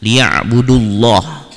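LIYA'BUDULLAH with a heavy, rounded "lloh"; slow recitation, thick l and dark vowel in liya'budullah; thick lam. Shown as a demonstration. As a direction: say the Allah in "liya'budullah" thick, like "loh". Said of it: "Lafadz Allahnya dibaca tebal".

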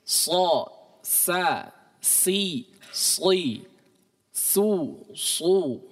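thin sa set against heavy sa; "Sa, sa, si, si, su, su" with a light sin, then a thick emphatic shad each time; sin and shad demo. Shown as a demonstration. Teacher contrasting sin and shad by sound. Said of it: "sin dan shad".

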